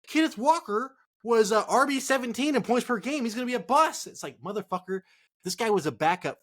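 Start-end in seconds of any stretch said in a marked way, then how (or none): 0.1-4.1 mocking analyst. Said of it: "This fool was like".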